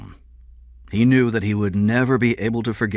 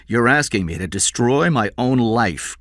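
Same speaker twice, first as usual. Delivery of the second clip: higher-pitched agitated protest; 6 semitones higher, 4 dB louder than usual. A narrator's reading. Employer refuses to ruin his own life, agitated protest. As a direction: push back, voice lifted.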